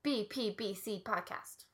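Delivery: B P B C said slowly, each letter punched. Shown as a demonstration. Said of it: "I don't know why I have to say it like that".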